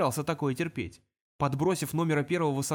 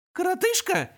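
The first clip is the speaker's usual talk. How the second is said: much higher, squeaky imp mimicry; squeak; 5 dB louder than usual. Imp squeaking the insult back at demon. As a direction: squeak the word back mockingly. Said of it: "пропищал он".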